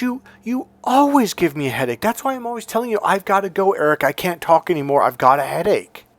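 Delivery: a hint of a mom siding with the teacher; mother's voice.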